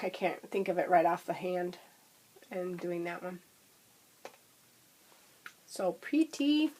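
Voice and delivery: talking while crunching a lozenge. Real, not acted. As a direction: crunch a throat lozenge mid-sentence. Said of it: "I'm crunching on a throat lozenge".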